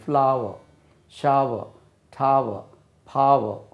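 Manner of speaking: ஃப்ளாவர், ஷாவர், டாவர், பாவர் with a long open "aa-va"; ஃப்ளாவர் to பாவர், each falling, final r silent; pronunciation model. Shown as a demonstration. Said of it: "அப்படின்னு சொல்லணும்".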